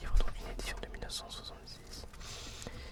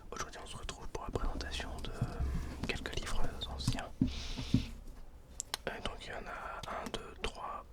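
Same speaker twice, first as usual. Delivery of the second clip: right in your ear. Real, not acted. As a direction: close binaural ASMR whisper. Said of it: "en binaural cette fois-ci".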